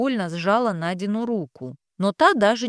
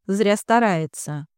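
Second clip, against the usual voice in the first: ordinary delivery, nothing marked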